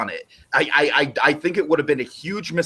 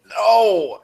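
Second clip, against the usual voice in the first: loud, high drawn-out no; mock-horrified shout; dismayed outcry; 7 semitones higher, 6 dB louder than usual. Acted dismayed reaction to outcome.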